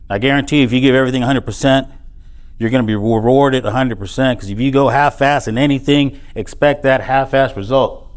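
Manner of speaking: fired-up motivational push; rousing preaching. Real, not acted. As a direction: preach it like a coach firing up the team. Speaker rallies students in speech.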